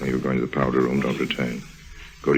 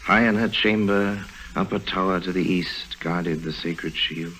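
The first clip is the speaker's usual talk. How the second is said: mock poetic recital; 3 semitones higher, 4 dB quieter than usual. Lime teasing Nora by reciting verse at her, mock poetic. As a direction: ham it up like reading old romantic poetry.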